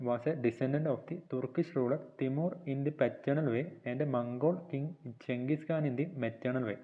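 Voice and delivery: reads English notes slowly, word by word, for copying; slow dictation reading. Shown as a demonstration. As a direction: dictate each phrase slowly so students can write. (പതുക്കെ dictation വായന)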